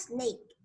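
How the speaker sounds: "snake" with only a short start, as "nake"; rest of the word. Shown as a demonstration. Teacher splitting the word for pupils, rest of the word. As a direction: say just the tail of "snake" after the s. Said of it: "ya después decimos snake".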